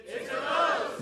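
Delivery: congregation's frightened cry. Shown as a demonstration. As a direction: gasp it out in terror. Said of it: "Much better".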